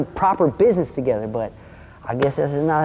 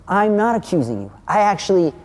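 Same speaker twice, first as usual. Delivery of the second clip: higher, emphatic and insistent; retold heated rebuttal; 5 semitones higher than usual. Storyteller answering the dude's protest with facts, heatedly emphatic. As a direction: hammer each point home. Retold argument, denies accusing him.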